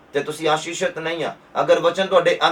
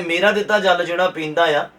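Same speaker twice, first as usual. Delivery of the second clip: building to a loud, higher proclamation; Jesus's promise proclaimed; 4 semitones higher, 5 dB louder than usual. Acted. Preacher voices Jesus's promise to the congregation, building loud proclamation. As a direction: thunder out the promise, slowing at the peak. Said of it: "ਕਹਿੰਦੇ".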